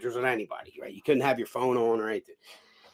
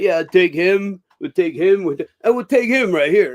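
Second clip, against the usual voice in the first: imitating the gym owner; 4 semitones higher, 7 dB louder than usual. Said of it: "he's going".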